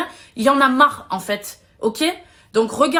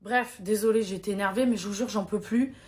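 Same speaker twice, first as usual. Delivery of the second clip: close to tears; 2 semitones lower, 3 dB quieter than usual. Real, not acted. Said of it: "ça me fait monter les larmes".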